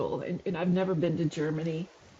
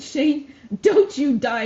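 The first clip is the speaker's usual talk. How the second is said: mild mock scream; 5 semitones higher, 7 dB louder, slower than usual. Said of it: "I screamed at the top of my lungs".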